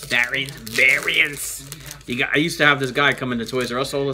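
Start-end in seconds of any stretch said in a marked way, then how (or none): 0.1-1.7 put-on slow, drawn-out Italian accent; thick Italian accent. Card opener recalling a toy-store customer, thick Italian accent. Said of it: "that was his voice".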